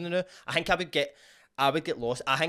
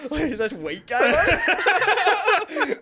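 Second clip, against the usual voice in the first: real laughter, higher and louder, slow; laughing; 9 dB louder, slower than usual. Real, not acted. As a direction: laugh through the question. Laughing at a picture.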